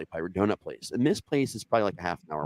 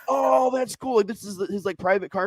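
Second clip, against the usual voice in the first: higher, dopey stoned agreement; mock naive; 12 semitones higher than usual. Retelling his stoned self accepting the story, high and clueless. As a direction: sound clueless and easygoing.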